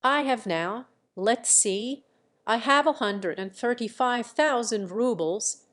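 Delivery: plain reading voice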